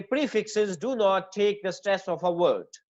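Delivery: slow, deliberate rule read out; teacher dictating a rule slowly; slow dictation. Shown as a demonstration. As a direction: spell the rule out slowly for students. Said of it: "पहली बात तो ये याद कर ले".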